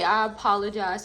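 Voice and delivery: a lightly prim, correct-sounding "I apologize"; playing at being proper over a plain apology; mock proper apology. Reader corrects herself to viewers, mock proper apology. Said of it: "I don't know why I'm talking like that".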